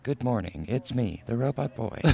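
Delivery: put-on stiff, mechanical robot boy; lightly done robot voice. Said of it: "I did that on William's podcast".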